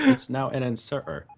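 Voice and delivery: "inserter" said mockingly with its T removed; dropped T's. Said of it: "remove all T's from the word".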